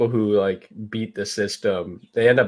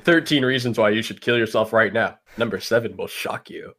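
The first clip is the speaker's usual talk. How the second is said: teasing clickbait headline voice; clickbait video narrator. Pretend. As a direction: read it like a clickbait teaser. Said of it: "Sounds like a BuzzFeed article".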